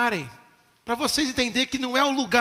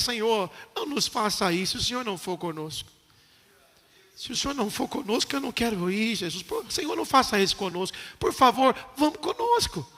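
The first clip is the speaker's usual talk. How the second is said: hushed pleading prayer; 6 dB quieter than usual. Acted. Voicing Moses' prayer quietly.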